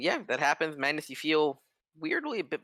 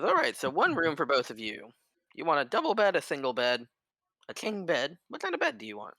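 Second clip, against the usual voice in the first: rising, eager innkeeper listing beds; an overeager host fussing; lightly voiced fussy innkeeper; 5 semitones higher than usual.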